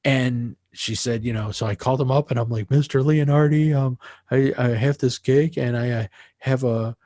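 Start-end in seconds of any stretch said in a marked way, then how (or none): 2.7-7.0 put-on a flustered young singer asking a favour; nervous caller. Singer phoning Mister Leonardi for a gig, nervous. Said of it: "all nervous".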